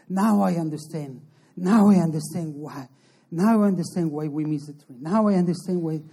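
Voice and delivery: a visitor overwhelmed as he finally understands; excited realization. Retold or imitated. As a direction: say it like a sudden revelation. Visitor's revelation during prayer.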